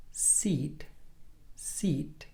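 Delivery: "Seat" with a tense, spread ee; EE vowel demo. Shown as a demonstration. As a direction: model the long ee in each "seat". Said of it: "One more time".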